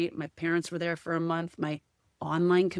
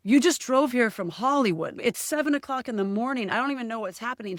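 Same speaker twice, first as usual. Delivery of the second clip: amazed disbelief; 5 semitones higher than usual. Retold or imitated. Shocked at friend arriving early.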